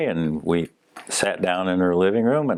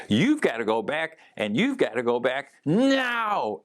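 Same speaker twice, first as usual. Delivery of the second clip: higher, insistent order with a finger wag; forceful command; 7 semitones higher than usual. Retold or imitated. Sister's late sibling insisting she returns, forceful higher command. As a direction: push every word to make her go back now. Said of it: "she said it with such force".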